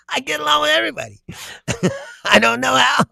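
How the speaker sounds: fast, breathy aside under the breath; hushed, rushed aside; quick whisper. Real, not acted. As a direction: whisper it like a secret joke. Muttered aside to self.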